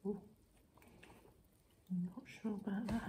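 talking while chewing pastry; speaking with food in mouth; mouth full, chewing. Real, not acted. Seen 2: Pastry bitten, lips pursed and moving, grimacing while speaking.

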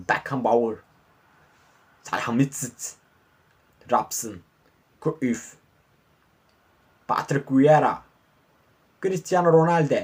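lightly put-on English commentator accent; English announcer. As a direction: call the names like a British announcer. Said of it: "İngiliz spiker gibi konuşuyorum ha". (İngiliz spiker aksanı)

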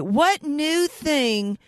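What new thing drawn out very slowly; slow emphatic repeat. Real, not acted. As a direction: stretch each word, slow and deliberate. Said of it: "what new thing are you going to do".

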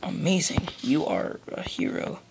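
dry, deadpan praise; sarcastic. Acted. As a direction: say it with heavy sarcasm. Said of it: "That was sarcasm".

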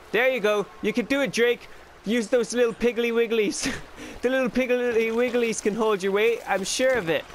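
high-pitched mock coaxing; playful encouragement. Player cheers Drake up the ledge, playful high-pitched encouragement.

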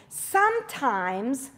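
Sometimes stretched very slow with a rising end; slow, emphatic Sometimes; drawn-out sometimes. Shown as a demonstration. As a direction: hold Sometimes long for emphasis. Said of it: "Let me say that again".

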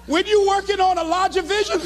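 high, choked-up speechmaking; tearful. Retold or imitated. Heartbroken speaker back on stage before the crowd, tearful. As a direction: keep preaching while near tears. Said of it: "it'll make you cry".

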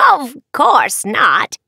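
reassuring in a witchy way; witch voice. Acted. Witch denies poisoning.

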